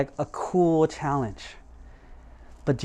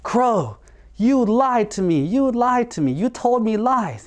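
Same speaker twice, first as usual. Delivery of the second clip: high, louder mock anger; angry bear; 8 semitones higher, 3 dB louder than usual. Bear confronts the crow who tricked him, angry. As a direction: accuse the crow angrily. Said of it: "he got mad".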